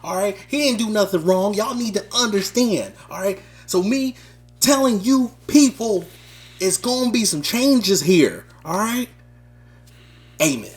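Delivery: fiery, preachy rapper-style promo, building in spurts; boastful campaign rant in a lightly voiced rapper impression; famous-rapper promo. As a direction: sell yourself as the rapper to the crowd. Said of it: "Because I tried to be a rapper with it".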